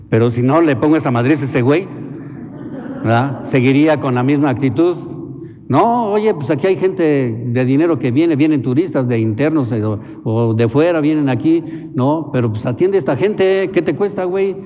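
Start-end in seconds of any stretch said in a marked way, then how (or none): 5.7-14.6 indignant scolding. Retold or imitated. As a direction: tell him off, building in heat. Priest scolding the shop owner.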